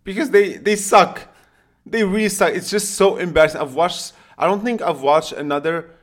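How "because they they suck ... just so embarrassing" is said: exasperated rant. Real, not acted. Venting about Sevilla being bad.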